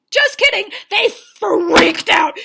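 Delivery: high, loud exclamation; loud comic exclamation; excited outburst. Real, not acted. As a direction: burst out with the twist. Excited reveal.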